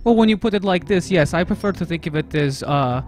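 hammed-up patriotic Russian; Russian accent. Persona banter and game text.

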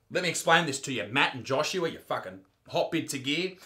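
soft, low mock-sweet explanation; mock tender.

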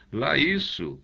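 high, sudden exclamation; exclaiming. A narrator's reading. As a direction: burst out in enthusiastic agreement.

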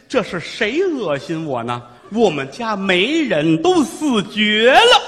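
put-on bitter old mother, slow and building; trembling old woman. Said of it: "老太太颤巍巍的声音".

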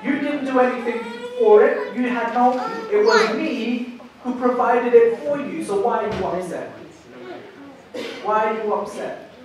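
lightly voiced God, patient and searching. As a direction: speak as God gently rebuking a sulking prophet. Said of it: "this is how God speaks".

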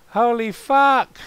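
high, loud, drawn-out exclamation; escalated shocked shout. Pretend. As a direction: stretch it out into a yell.

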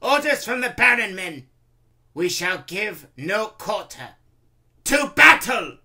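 high, loud commander's shout; rally the troops at full voice; shouted military orders. A narrator's reading. Randolph ordering his soldiers to battle, shouting. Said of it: "Randolph orders the remaining soldiers".

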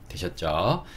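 ordinary delivery

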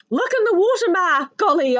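loud, high squawking cry; child screeching to Ma from the water; alarmed screech. Acted. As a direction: shriek for Ma in alarm. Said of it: "I squawked and I screeched".

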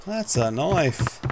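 a bad, hammed-up Australian accent, slow; mock Australian, drawn out; awful Australian accent. Shown as a demonstration. Gamer showing off a knife in a bad Australian accent. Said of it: "My awful Australian accent".

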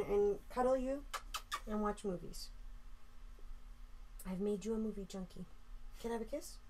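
soft, affectionate talk to a dog; tender pet talk. Real, not acted. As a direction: coo lovingly to your dog. Cuddling and soothing a dog.

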